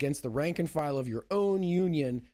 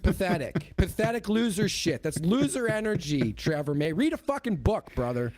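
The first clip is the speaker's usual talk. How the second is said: mock disgust rant; 4 semitones higher than usual. Real, not acted. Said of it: "Rant over".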